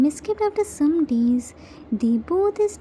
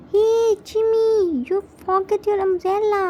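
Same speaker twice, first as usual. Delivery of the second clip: raised, higher call after a departing friend; shouting after him; 4 semitones higher than usual. Acted. Small boy calls after his new friend, raised voice. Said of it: "Meow Meow shouts".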